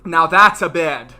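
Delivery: a mock young British wizard voice, loud; imitating an accent. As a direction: quote him in a put-on British accent. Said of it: "And that's how he said it".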